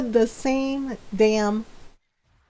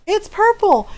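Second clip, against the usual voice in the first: mocking Ron; 10 semitones higher, 5 dB louder than usual. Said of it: "Ron goes".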